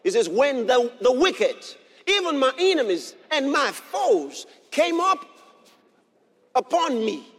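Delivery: loud preached declaration; bold proclamation. Real, not acted. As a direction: proclaim it boldly to the congregation. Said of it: "then I'll boldly proclaim".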